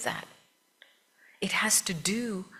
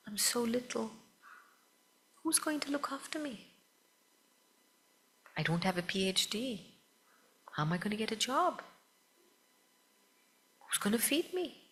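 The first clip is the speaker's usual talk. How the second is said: mock baby voice, higher and softer; worried little baby; 4 semitones higher, 7 dB quieter than usual. Speaker voicing a newborn's imagined worries, softer baby-like voice. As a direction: lightly voice a fretful infant.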